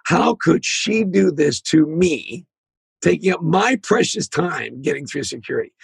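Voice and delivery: drawn-out, self-important grievance, acted; mock affronted, leaning slowly on the words; indignant complaint. Busy traveler fuming behind a mother in line, indignant complaint.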